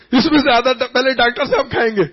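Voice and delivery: put-on child laughing at the doctor's advice, cheeky. Child retorts to the doctor, laughing and cheeky. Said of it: "ٹہکا لگا کر کہا".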